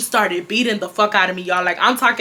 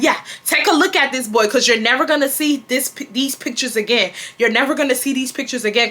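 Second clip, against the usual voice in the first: higher-pitched gloating, lightly mimicked; mother's retold taunting; 4 semitones higher than usual. Mom confiscating the boy's pictures, mock taunting. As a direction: rub it in, imitating a parent. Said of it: "taunting me at this point".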